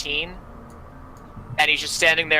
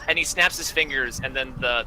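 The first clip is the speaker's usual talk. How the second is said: ordinary talk, nothing marked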